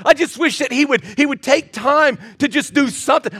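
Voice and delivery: mild mock complaint of a wife; a hint of a wife's complaint; complaining wives. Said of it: "I guarantee you hear the same thing".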